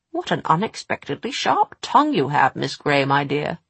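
put-on silky menacing older woman; sinister lady voice. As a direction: purr it with cold amusement. Mrs Black character voice.

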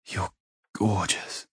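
soft, slow, awed murmur; quietly awestruck, unhurried; breathless wonder. A narrator's reading. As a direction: hush it and draw it out in wonder. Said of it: "filled with breathless wonder".

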